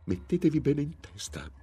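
seethe with hatred through clenched teeth, unheard by the husband. A narrator's reading. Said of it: "mi disse a denti stretti". (minaccia rabbiosa a denti stretti)

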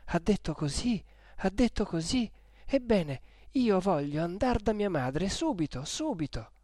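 insist, voice climbing with panic; desperate insistence. Acted. Lucia demands to go to her mother now, desperate.

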